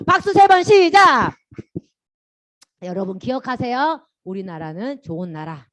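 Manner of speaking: normal talking voice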